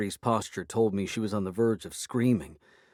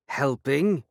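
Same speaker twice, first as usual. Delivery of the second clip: spat, higher and louder; 6 semitones higher, 5 dB louder than usual. A narrator's reading. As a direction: spit the word out in scorn. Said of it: "she spat".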